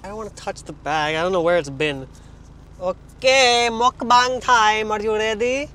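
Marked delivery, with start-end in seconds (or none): 2.8-5.7 big excited mukbang intro, slow on mukbang; hyped announcer. Real, not acted. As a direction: announce it like a show opener.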